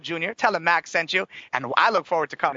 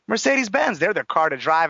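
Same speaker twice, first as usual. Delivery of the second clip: infomercial voice. Real, not acted. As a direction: pitch it like a TV commercial. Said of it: "I sound like an infomercial right now".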